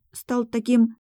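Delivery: syrupy teasing, dragged out slowly; grimacing prompt. A narrator's reading. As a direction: stretch it out with a mocking grimace. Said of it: "с гримасой подсказала я".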